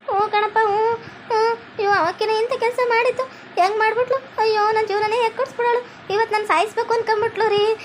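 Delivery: tearful complaint. Acted. Wife tells her husband about the plot, acted tearful wail. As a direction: whimper out the grievance like a wronged wife. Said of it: "ಅಳ್ಬೇಡ ಸಿಂಗಾರಿ".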